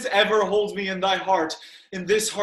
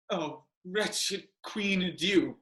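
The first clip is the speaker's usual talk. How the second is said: faint farewell; 7 dB quieter, slower than usual. Acted. Dying Hamlet bids farewell.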